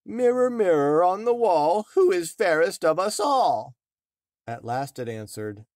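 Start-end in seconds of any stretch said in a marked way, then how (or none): 0.1-3.8 high, loud, commanding queen voice; queen asking the mirror. A narrator's reading. Queen demands an answer from her mirror, high and loud. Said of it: "she asked the mirror".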